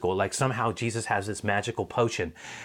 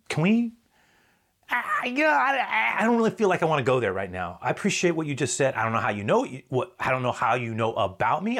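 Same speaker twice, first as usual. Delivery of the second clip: much higher, flustered and rushed voice of the woman; 5 semitones higher than usual. Acted. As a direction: stumble and hurry to change the subject. Woman deflecting uncomfortably.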